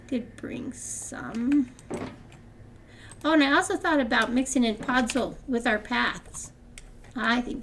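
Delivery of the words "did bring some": laughing whisper. Real, not acted. Laughs then whispers aside.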